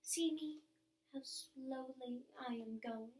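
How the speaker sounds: slow, fond, drawn-out goodbye; a dress's tender farewell, slowed and trailing; lingering farewell. Pretend. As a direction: let each goodbye linger as if fading away. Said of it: "still saying to you as it vanished".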